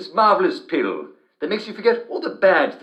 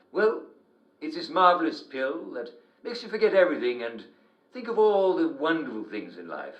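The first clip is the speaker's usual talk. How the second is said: ordinary delivery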